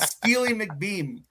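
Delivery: slow, amused drawn-out name; laughing. Real, not acted. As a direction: stretch it out, chuckling. Savoring funny name.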